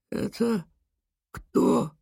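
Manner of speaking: awed whisper. Acted. Boy stunned, looking up.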